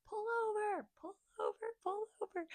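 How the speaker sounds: high, loud urgent commands to pull over; urgent friend. Retold or imitated. Friend on the phone urging her driver to pull over, high and loud. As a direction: friend insisting she stop the car now. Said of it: "And she's like".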